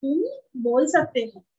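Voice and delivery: soothing. Retold or imitated. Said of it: "मैंने बोला".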